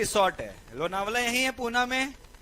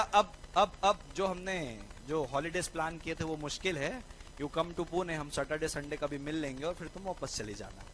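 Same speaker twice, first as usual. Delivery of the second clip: sheepish cancelling; 6 semitones lower, 7 dB quieter than usual. Retold or imitated. Cancelling holiday plans with girlfriend.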